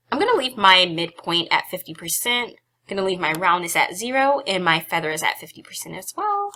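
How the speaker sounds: slightly out of breath, talking on; a little winded between phrases. Real, not acted. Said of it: "I'm sorry if I'm kind of out of breath".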